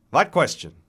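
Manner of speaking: put-on loud, high, reedy old man's retort; accented old voice, curt and sharp. A narrator's reading. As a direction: cut in sharply as an irritable old man. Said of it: "Meyer says sharply".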